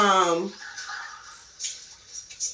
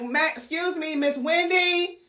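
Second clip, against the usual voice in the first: softer, slow, politely calling; polite quiet call; 4 semitones higher, 6 dB quieter than usual. Retold or imitated. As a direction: ease into the office. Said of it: "I'm like".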